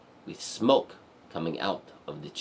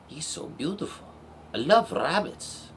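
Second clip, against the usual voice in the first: high, delighted gush; adoring princess; 9 semitones higher than usual. Acted. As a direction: coo in acted delight at a cute animal. Princess adores her first rabbit.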